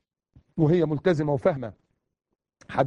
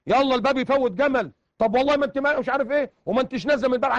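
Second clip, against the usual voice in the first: higher, heated mock row between spouses; mock quarrel; 6 semitones higher than usual. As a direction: imitate a wife yelling in a fight. Imitated marital quarrel.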